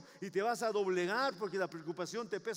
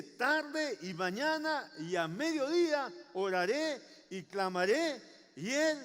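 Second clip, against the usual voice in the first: slow, raised proclamation, phrase by phrase; confident declaration; 3 semitones higher than usual. Acted. Preacher reciting King David's psalm, confidently. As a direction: proclaim it with growing certainty. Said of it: "él como rey tenía esta confianza".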